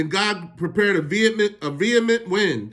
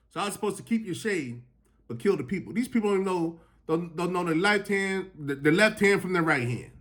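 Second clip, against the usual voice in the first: soft; 7 dB quieter than usual. Acted. God's point, said softly.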